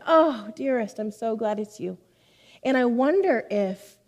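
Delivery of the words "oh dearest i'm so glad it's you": lightly imitated delighted phone greeting; fond mentor. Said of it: "she said".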